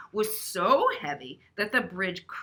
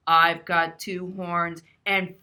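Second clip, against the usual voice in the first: deep goat; 3 semitones lower, 5 dB louder, slower than usual. Acted. Big goat voiced.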